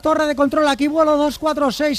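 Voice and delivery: pilot radioing the control tower; mayday call over the headset; pilot cockpit headset. Acted.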